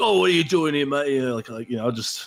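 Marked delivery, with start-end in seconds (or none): 0.0-1.1 put-on loud drunk voice. Imagining a drunk companion waking up: imitating Grinner talking loudly. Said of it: "he'll probably talk loud and be like".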